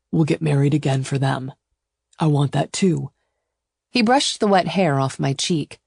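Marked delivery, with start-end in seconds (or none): 0.1-3.1 lightly voiced, steady lover; reassuring male suitor. Suitor answers her family worry, steadily reassuring. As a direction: reassure with firm resolve. Gideon's voice.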